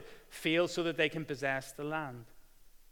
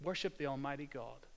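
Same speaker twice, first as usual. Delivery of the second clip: quiet echo; 2 semitones lower, 7 dB quieter than usual. Acted. Quiet echo of previous line.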